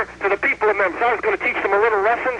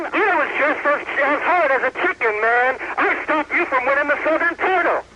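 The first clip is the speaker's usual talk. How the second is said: mustache twirling villain; 4 semitones higher than usual. Real, not acted. Gloating taunt at Lawler on air.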